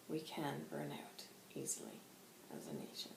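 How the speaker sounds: lightly voiced guide, measured and hushed; spirit guide. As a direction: counsel gently, with long pauses between phrases. Channels White Hawk's solemn counsel.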